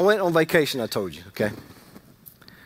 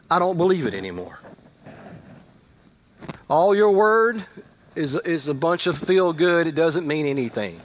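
bitter outburst. Retold or imitated. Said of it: "I said".

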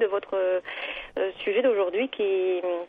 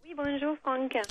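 southern French accent; 5 semitones higher, 6 dB quieter, slower than usual. Real, not acted. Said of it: "qu'est-ce que j'adore entendre cet accent du sud de la France".

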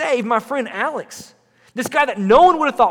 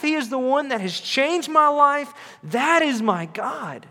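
building sermon; slower than usual. Acted. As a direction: build each line toward the climax. Preaching build-up.

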